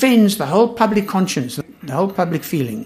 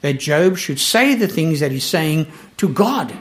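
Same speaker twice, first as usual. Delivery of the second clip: usual speaking voice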